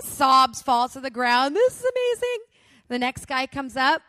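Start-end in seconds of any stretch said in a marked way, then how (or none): 1.6-2.4 high, loud and thrilled. Retold or imitated. Telling the crowd how amazed she felt, thrilled and high. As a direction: gush like it's a miracle.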